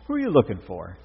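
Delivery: Jesus asking the weeping Mary, high and gentle; Jesus asking gently. A narrator's reading. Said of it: "Jesus said to her".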